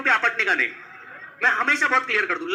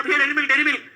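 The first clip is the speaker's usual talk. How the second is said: higher hawker pitch; vendor's call; 4 semitones higher, 3 dB louder, faster than usual. Acted. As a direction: call out your wares to passers-by. Acting a chocolate seller calling out. (फेरीवाले की पुकार)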